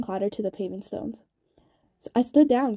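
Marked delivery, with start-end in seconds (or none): 2.1-2.8 pained cry, voice jumping up loud. A narrator's reading. Gil in pain cries out to Kaz, raised and loud. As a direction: yelp it out through the pain of a shattered wrist. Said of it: "cried Gilles".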